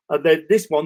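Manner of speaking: talking through a yawn; words stretched by a yawn. Real, not acted. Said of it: "excuse me, I'm yawning".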